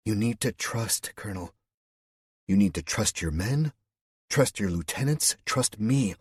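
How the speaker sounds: calm him down; Suzanne, firm reassurance. A narrator's reading. Suzanne urging the colonel to trust, firm and earnest.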